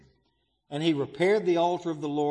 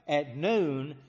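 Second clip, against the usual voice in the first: ordinary talk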